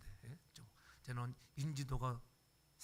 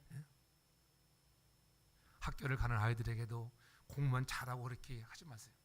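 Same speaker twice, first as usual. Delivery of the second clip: usual speaking voice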